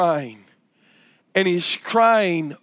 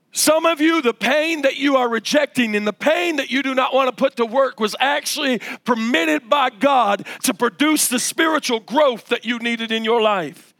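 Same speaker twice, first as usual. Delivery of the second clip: higher-pitched, earnest exhortation; emphatic preaching; 4 semitones higher than usual. Real, not acted. Preacher telling the congregation why pain was permitted, emphatic preaching. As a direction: press the point home like a preacher.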